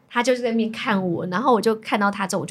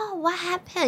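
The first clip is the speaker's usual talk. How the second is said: soft, higher-pitched retold concern; concerned manager; 8 semitones higher, 5 dB quieter, slower than usual. Older staff member asking customer what happened, imitated concern. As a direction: imitate a senior clerk gently checking in. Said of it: "好像想要来关心".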